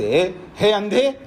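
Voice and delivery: drawn-out, tactless hail; rude address. Shown as a demonstration. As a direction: call out to a blind man crudely, stretching the words. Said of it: "ऐसे थोड़ा बोलना है".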